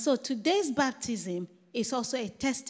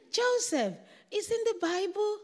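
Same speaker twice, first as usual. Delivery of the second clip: excited; 9 semitones higher than usual. Retold or imitated. Excited retort about the name.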